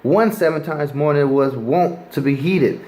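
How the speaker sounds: preacher reading scripture to the street crowd. Acted. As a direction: read the King James verse aloud with weight. Rereads the verse and continues.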